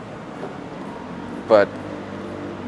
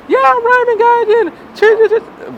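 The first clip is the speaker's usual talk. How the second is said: high, overdone cheerful greeting; forced excitement. Retold or imitated. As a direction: fake being thrilled to meet a fan. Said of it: "I try my best to sound exci".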